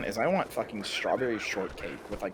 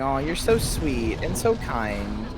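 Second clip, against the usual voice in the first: mock cooing; slower than usual. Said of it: "and going".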